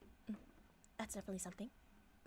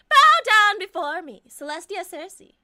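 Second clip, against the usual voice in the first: dark lord; 4 semitones higher, 13 dB louder than usual. Acted. Character demands worship.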